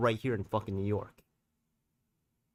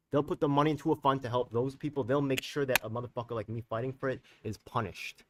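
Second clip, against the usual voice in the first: emotional outburst; 2 semitones higher than usual. Real, not acted. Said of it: "I got a little emotional there".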